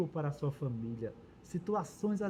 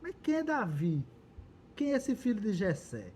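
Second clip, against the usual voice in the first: scripture reading. A narrator's reading. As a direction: read out a challenge in measured phrases. Reads Nabal's scornful reply from scripture.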